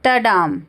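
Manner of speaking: टडाम with a light ट and a heavy, held डाम; iamb beat. Shown as a demonstration. Teacher has students hear the iamb, stress on the second beat of टडाम. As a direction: step off ट and land on डाम. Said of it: "यहाँ पे sound सुनिए".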